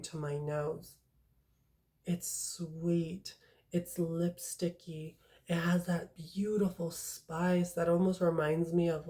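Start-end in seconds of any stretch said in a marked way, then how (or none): 2.0-9.1 soft, slow breathy whisper of a sensual scent. Real, not acted. Reviewer whispering to viewers about a sensual perfume, hushed. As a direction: lean in and whisper it like a secret.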